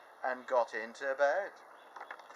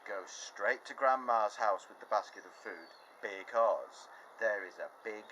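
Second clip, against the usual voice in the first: a mild motherly warning; mother's warning; 2 semitones lower than usual. Acted. Mother warning her daughter about the wolf, mild. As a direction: caution her daughter gently. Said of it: "The mother said".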